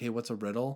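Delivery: plain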